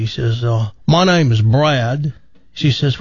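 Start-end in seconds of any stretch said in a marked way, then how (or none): 0.9-2.1 broad mock Australian-British vowels; put-on Australian-British accent. Man at a bar introduces himself, mock Australian-British accent. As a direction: introduce yourself in a hammed Aussie-British accent. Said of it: "what's with that accent".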